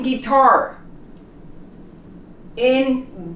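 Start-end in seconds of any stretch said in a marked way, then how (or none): 0.0-0.8 guitar with a plain hard G; no W glide after the G in guitar; silent U. Shown as a demonstration. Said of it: "we don't pronounce the U".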